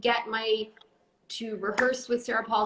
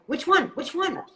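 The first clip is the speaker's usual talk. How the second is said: higher, louder put-on silly voice; 6 semitones higher, 4 dB louder than usual. Shown as a demonstration. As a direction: show off the funny voice. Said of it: "Why does Amanda do that voice".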